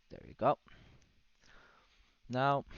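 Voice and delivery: loud, high burst of excitement; excited shout. Real, not acted. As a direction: cheer as the trade lands. Trade hits, excited outburst.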